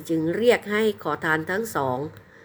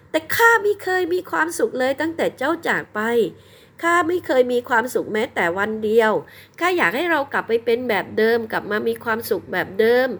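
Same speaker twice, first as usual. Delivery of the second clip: tearful bride; 6 semitones higher than usual. A narrator's reading. Bride pours out her heart.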